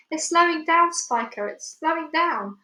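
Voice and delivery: high, loud insistence; insistent. Acted. Aunt insisting.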